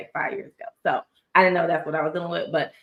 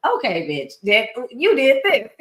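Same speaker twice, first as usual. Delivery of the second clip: sharp call-out; 5 semitones higher, 4 dB louder than usual. Retold or imitated. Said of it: "She's like".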